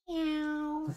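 a high, cute cat meow; playful high meow. Pretend. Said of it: "now do a new one".

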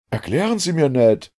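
high-pitched, pressing request; urgent demand. A narrator's reading. Professor wants Ned to explain, urgent.

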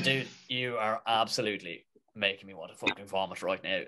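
hammed-up Southside Dublin accent, breaking into laughter; South Dublin accent. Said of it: "turned Southsider".

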